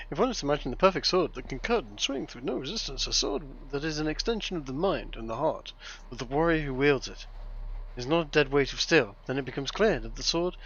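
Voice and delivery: lightly put-on German accent, reading solemnly. Reading a strategy book aloud to friends, mild German accent. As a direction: read it like a German sword master, half in jest. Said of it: "I am in just German accent".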